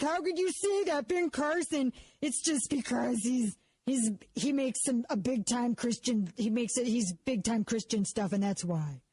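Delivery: a hint of a huffy listener, slowing down; mocking emailers. Host mocks a Ben Carson fan emailing her, mild whiny voice.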